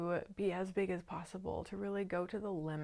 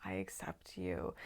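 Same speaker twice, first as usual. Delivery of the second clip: calm. Retold or imitated. To the raging shadow figure, calmly accepting her. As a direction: settle her gently, no push. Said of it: "me just calmly saying".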